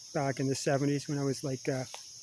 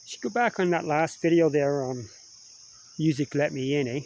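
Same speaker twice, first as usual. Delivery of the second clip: talking while eating a cookie; mouth full; 2 semitones higher than usual. Real, not acted. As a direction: talk through a mouthful. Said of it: "watch him eat".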